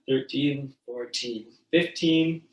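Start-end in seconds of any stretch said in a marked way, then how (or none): 1.7-2.4 hiccuping while counting; hiccups. Real, not acted. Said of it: "Excuse me, I have the hiccups".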